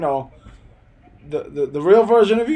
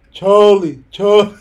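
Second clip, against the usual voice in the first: loud hood New York voice; imitating the cousin, loud and hood; 4 semitones higher, 9 dB louder than usual. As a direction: call the name out loud like the cousin. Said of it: "But he's like".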